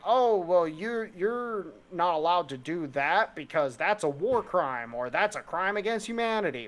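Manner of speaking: a hint of a prim moralizer wagging a finger; posh. Mimicking posh outsiders lecturing locals, mildly prissy. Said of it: "they're gonna sound really fucking posh".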